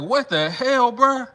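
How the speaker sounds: rising into a high, crying whine; whiny denial. Pretend. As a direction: beg to be left out. Imagined brother denying.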